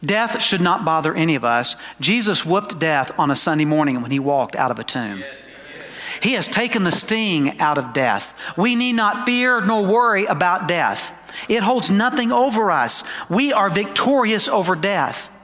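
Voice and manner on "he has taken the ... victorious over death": higher, emphatic sermon delivery; emphatic preaching. Real, not acted. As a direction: proclaim it firmly to the congregation. Preaches victory over death.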